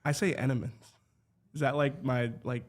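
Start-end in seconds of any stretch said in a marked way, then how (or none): 0.3-0.9 Philadelphia accent. Shown as a demonstration. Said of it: "Philadelphia accent".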